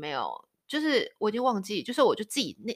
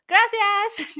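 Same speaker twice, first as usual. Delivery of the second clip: higher, louder, slow, breezy Gracias; matter-of-fact thanks; 12 semitones higher, 7 dB louder than usual. Retold or imitated. Spanish grandchildren accepting grandpa's money, breezy and matter-of-fact. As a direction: accept the money as the most natural thing. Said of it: "超级理所当然".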